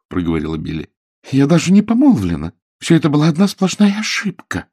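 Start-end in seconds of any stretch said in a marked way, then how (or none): 1.3-4.7 high, emphatic insistence; Billy, eager. A narrator's reading. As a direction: blurt it out relieved.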